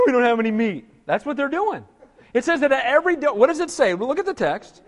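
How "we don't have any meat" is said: mock whining. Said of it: "Whining and complaining".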